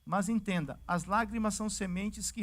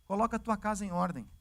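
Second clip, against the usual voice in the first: casual street greeting; faster than usual. Retold or imitated. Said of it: "chega no palácio do rei e fala assim".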